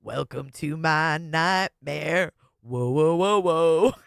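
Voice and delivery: slow, low spooky showman voice; a shock-rock singer's voice. Retold or imitated. Voicing the woman in the video as a shock-rock singer. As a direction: drawl it like a shock-rock host. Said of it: "Look at her Alice Cooper eyes".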